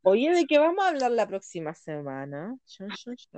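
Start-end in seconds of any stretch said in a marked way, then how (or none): 2.7-3.4 soft "dun, dun, dun" noise; mock suspense sting. Host teasing next week's topic, hushed suspense sting. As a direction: hush a little dramatic sting.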